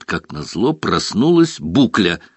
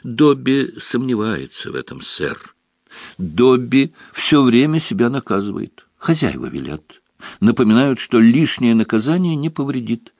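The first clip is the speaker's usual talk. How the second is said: house elf voice; 5 semitones higher than usual. Acted. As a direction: speak as a meek house elf. Dobby speaks.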